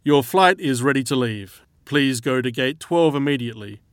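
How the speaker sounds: airport PA announcement, echoing; flat echoey pa page. Acted. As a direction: read it like a gate announcement over speakers. Airport boarding call announcement.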